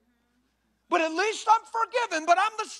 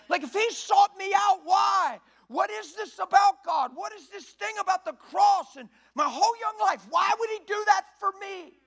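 raised questions; 3 semitones higher than usual. Retold or imitated. Retelling his own urgent questions.

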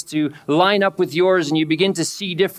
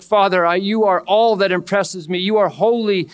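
raised, awestruck voice of worship; adoring prayer; 5 semitones higher than usual. Acted. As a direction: lift it up in awe of God. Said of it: "There's adoration where it's just like".

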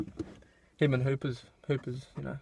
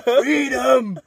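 laughing freedom cry; 6 semitones higher, 3 dB louder than usual. Retold or imitated. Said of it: "William Wallace".

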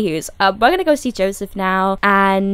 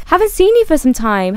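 higher-pitched, lively acted hello; bright greeting; 6 semitones higher than usual. Vio greeting Joseph after some time, bright.

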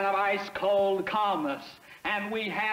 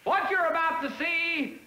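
carried away; 5 semitones higher than usual. Acted. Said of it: "I get carried away".

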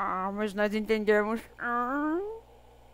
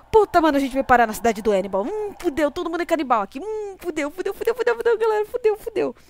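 being chased; 6 semitones higher, 7 dB louder, faster than usual. Real, not acted. Monsters approach, she panics.

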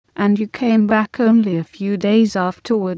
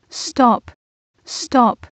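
shouted; 4 semitones higher than usual. Acted. Nuigo silencing Adaku's shameful plans, mild shout. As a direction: cut her off with a sharp cry. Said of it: "Nuigo shouted".

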